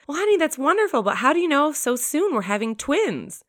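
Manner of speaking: lightly voiced joyful husband; overjoyed husband. Husband reacts to twin news, mildly overjoyed. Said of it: "overjoyed and says to his wife".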